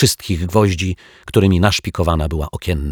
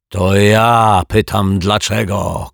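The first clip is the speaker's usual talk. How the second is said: louder, slow indignant shout; 3 semitones higher, 6 dB louder, slower than usual. Acted. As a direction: yell it back at the detective. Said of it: "krzyknął pan Mietek". (krzyk oburzonego dozorcy)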